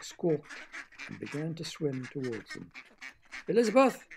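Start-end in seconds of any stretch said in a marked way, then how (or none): 3.5-4.1 loud, much higher shout over the pond; frog shouting. Acted. Frog shouting for the duck Boris, loud and high. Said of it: "the frog yelled".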